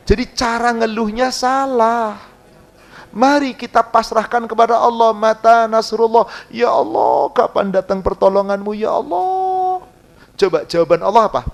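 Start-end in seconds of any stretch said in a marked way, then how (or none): 5.2-9.9 slow, drawn-out cry to God; pleading prayer. Acted. Preacher voicing a desperate prayer to God, pleading. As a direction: stretch out each ya Allah in anguish.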